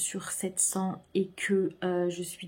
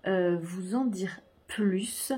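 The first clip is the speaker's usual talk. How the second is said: whispering; much slower than usual. Real, not acted. Can't say more, secret project.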